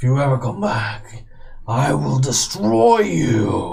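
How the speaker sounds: rasping, rough, creaky skeleton voice. Narrating the scene, the speaker voices a skeleton's parting words in a booming voice. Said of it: "a voice booming out of this skeleton".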